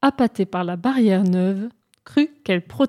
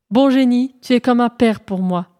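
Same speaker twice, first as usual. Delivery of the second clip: mock shout to the genie; 3 semitones higher, 4 dB louder than usual. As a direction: call out to the unseen genie. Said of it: "hurla-t-il". (crie bien fort au bon génie, sans vrai hurlement)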